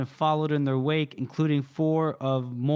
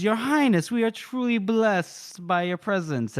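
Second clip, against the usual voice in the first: effusive courtier; 5 semitones higher than usual. Acted. Casca sweeping over to royals.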